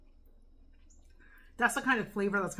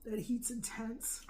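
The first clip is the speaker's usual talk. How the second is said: mouth full of hot food; 2 semitones higher, 5 dB quieter, slower than usual. Real, not acted. Eating very hot pepper.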